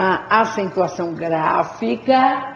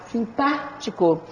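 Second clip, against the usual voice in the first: "simpático" slow and softer, leaning on PÁ; stress on PÁ; 5 dB quieter, slower than usual. Shown as a demonstration. Teacher confirming the tonic syllable, PÁ leaned on in "simpático". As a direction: gently stretch PÁ in "simpático". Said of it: "a sílaba tônica é o pá".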